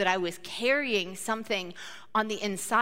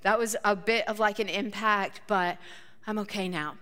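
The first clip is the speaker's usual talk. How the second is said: self soothing. Retold or imitated. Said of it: "bring my heart rate back down".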